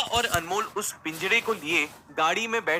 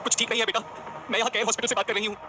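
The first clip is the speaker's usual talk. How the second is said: sobbing mother; 5 semitones higher, faster than usual. Acted. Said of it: "सिसकियां भरते हुए".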